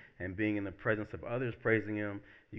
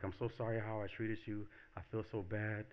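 soft, understated imitated remorse; repentant apology; 6 dB quieter than usual. Woman sorry for how she treated him, mildly repentant. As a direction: quietly own up, lightly acted. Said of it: "like, repenting".

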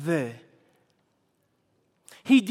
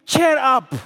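encouraging; 3 semitones higher, 6 dB louder than usual. Acted. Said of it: "They say to him".

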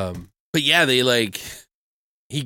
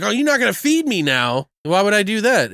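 whiny; 8 semitones higher, 3 dB louder than usual. Retold or imitated. Jackson whining about food.

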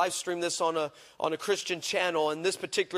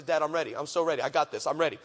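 daughter's eager reply; 5 semitones lower than usual. Retold or imitated. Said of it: "She says".

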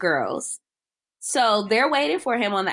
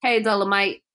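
mock stilted crying; 2 semitones lower than usual. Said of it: "she was like".

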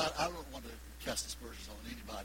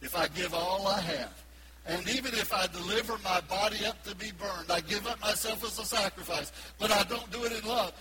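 quoted scripture; 6 semitones higher, 5 dB louder than usual. Acted. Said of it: "Paul said".

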